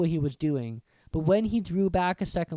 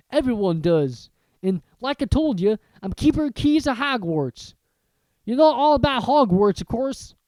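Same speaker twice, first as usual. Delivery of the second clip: Hagrid; 7 semitones higher, 8 dB louder than usual. Acted. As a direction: introduce yourself like a friendly giant. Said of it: "he said".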